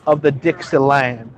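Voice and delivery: hammed-up Southern gentleman taking offence; mock Southern accent.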